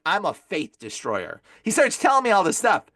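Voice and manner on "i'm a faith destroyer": slow, low demon declaration. Retold or imitated. Demon introduces himself to exorcist, slow and low. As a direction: announce yourself slowly in a deep demon voice. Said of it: "the demon's like".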